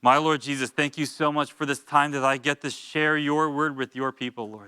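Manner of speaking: prayer. Real, not acted. Leads a prayer.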